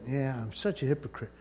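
imitating someone quietly defeated; resigned admission. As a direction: drop the voice, giving in to the accusation. Man nearly agrees with devil's accusation.

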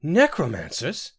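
high, slow horrified question; quivering. A narrator's reading. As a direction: recoil at the word in dismay. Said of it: "Sinetta quivered".

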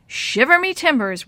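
high, loud playful pirate growl. Acted. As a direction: ham it up like a kid pirate. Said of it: "trying to sound like a pirate".

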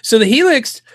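usual speaking voice

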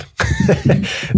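bursting into a high, amused laugh; a real laugh that breaks out. Real, not acted. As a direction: laugh at how neatly the two fit. Laughs at linked-up patterns.

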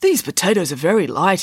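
a touch of puzzlement; mildly baffled observation; confused. Acted. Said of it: "he said, confused".

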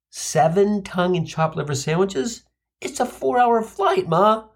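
rising, near-crying disbelief; incredulous. Retold or imitated. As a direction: protest the absurd amount of food. Son incredulous at food.

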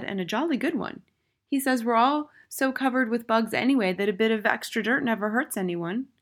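put-on high little-boy voice; high-pitched, unruffled schoolboy; small boy, reasoning. A narrator's reading. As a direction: explain innocently in a high child's voice.

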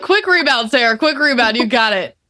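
quick upbeat self-coaching; self pep talk. Pretend. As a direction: coach yourself to bounce back. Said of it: "I was like".

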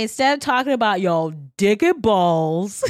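said out loud and brash; loud crude joke to the listeners; loudly. Real, not acted. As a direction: blurt it out loud on purpose. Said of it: "Why do you have to say it so loudly?".

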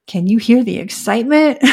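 amused self-mockery, breaking into a laugh; sarcastic. Real, not acted. Coach poking fun at her old pitch, sarcastic. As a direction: tease your own lacklustre answer.

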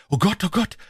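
high, loud horrified cry to God; terrified cry. A narrator's reading. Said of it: "schrie ich".

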